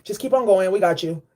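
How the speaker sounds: voicing Archangel Michael low and calm; deep reassuring guardian voice, easy and unhurried; low soothing angel voice. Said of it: "Archangel Michael's like".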